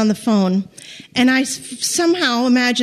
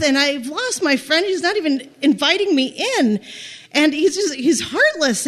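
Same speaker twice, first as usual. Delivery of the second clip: a touch of wounded complaint, higher pitched; lightly hammed-up poor-little-me lament; indignant self-pity; 3 semitones higher than usual. Stranded girl silently faulting the policeman, mildly indignant self-pity. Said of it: "all the while I'm sort of thinking".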